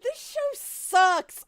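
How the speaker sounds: high, slow, exasperated complaint; drawn-out groan. Real, not acted. Friend groaning at the awful show, in a slow exasperated whine. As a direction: stretch it out like you're suffering.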